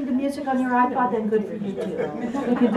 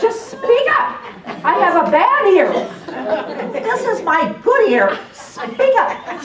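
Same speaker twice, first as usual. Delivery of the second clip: higher and louder, insistent demand; imitating Dorothy; 8 semitones higher, 7 dB louder, slower than usual. Court reporter Dorothy voiced demanding attorneys speak up. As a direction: belt it out like she can barely hear. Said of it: "That's how she talks".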